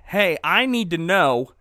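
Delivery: hammed-up menacing ask; mildly hammed slow Silas threat; Silas taunting. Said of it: "And Silas is like".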